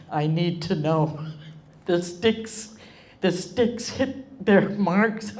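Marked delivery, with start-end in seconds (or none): 1.9-5.4 choked up. Real, not acted. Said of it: "so suddenly emotional".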